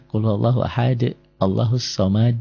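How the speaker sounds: measured chant at normal pitch with bounced final d; murotal recitation. Shown as a demonstration. Teacher showing how murotal makes qalqalah clear, measured recitation. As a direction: recite plainly, releasing each final d in qalqalah. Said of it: "kalau murotal coba lihat ya".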